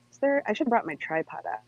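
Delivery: muffled with phone in teeth; phone held in teeth. Real, not acted. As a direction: speak around a phone in teeth. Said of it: "put this in my mouth".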